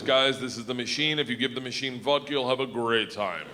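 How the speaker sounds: low Russian gangster introducing a friend; Russian accent. Retold or imitated. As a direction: present him to the guys in a low Russian accent. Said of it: "he goes".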